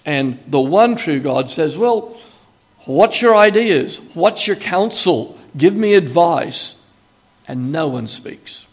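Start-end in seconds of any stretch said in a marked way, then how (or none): 1.8-6.8 God's challenge. Acted. God challenging the false gods.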